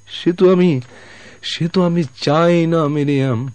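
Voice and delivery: breaking out in pained protest; anguished outburst. Acted. Dying man's emotional outburst. (যন্ত্রণাভরা উঁচু গলায়)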